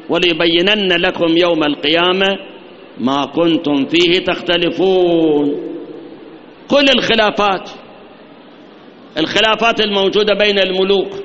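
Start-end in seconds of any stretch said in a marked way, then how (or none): 0.1-5.5 slow measured verse recitation; Quran recitation. Acted. Preacher recites the verse to his congregation, slow and measured. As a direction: recite the verse slowly and evenly.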